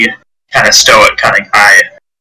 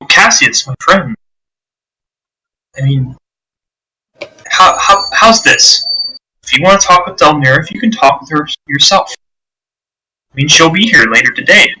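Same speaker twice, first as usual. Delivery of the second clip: mildly upbeat, higher-pitched friendly offer; too cheerful; 4 semitones higher than usual. Acted. Leo offers his friend Cassius a meeting, mildly too cheerful. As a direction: lightly play a man who is oddly cheerful. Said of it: "He just seems way too cheerful".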